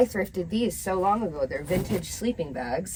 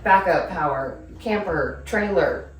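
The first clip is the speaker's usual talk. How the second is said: louder, upbeat ad delivery; projected promotional voice-over; sponsor read; 5 dB louder than usual. Real, not acted. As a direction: present the product clearly to viewers. Reads the sponsor segment.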